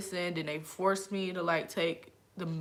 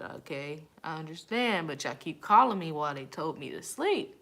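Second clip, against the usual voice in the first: annoyed attitude. Retold or imitated. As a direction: snap back at nagging family. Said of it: "answering the phone with an attitude".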